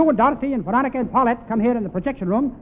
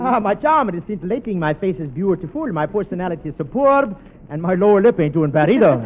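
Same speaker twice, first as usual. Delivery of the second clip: lightly voiced French lover; a hint of a suave French romancer; Charles Boyer; 3 dB louder than usual. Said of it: "I'm Charles Boyer".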